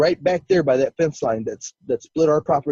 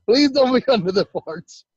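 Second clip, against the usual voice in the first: retold pleading, higher pitched; anxious plea; 8 semitones higher than usual. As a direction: plead under your breath no longer, voice raised. Pleading while fleeing in fear.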